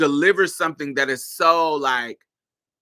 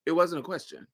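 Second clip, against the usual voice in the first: deadpan read. Retold or imitated. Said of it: "She's just telling you".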